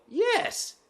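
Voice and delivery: high-pitched, drawn-out affirmation; acted jubilant yes. Customer hearing cashier get the order right, high mock delight. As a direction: sing out overjoyed relief.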